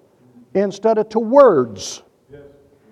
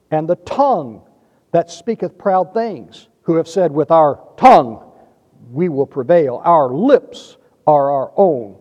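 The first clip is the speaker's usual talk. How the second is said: deliberate, emphatic psalm reading with pauses; scripture reading. Acted. Preacher reads Psalm twelve to his congregation, deliberate and emphatic. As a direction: read it out solemnly, leaning on key words.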